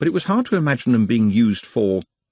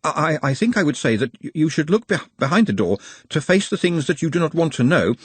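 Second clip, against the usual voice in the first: stumbling, stuttering a little; slight stutter; 8 semitones higher than usual. A narrator's reading. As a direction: catch on the first sounds. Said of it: "stuttering slightly".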